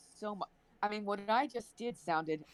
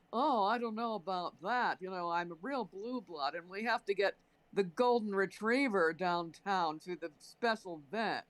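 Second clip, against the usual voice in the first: lightly put-on snobbish mainline Philadelphia accent; blue blood accent; 2 semitones lower than usual. Mocking a rich Philadelphian with a posh accent. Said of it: "the accent that I just did".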